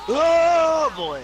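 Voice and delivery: high, loud cartoon god voice; pseudo Beerus voice. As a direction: belt it out like a cocky cat god. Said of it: "doing my pseudo Beerus".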